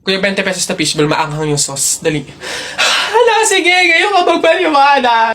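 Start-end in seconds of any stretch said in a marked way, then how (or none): 2.8-5.3 mock angry confrontation. Acted quarrel continues.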